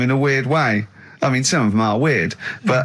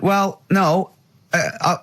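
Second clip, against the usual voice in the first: higher-pitched imitation of Carl; mock Carl voice; 5 semitones higher than usual. Ricky imitating Carl snubbing Robin, pitched up. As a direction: lift the voice to mimic Carl's huff. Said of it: "And Carl went".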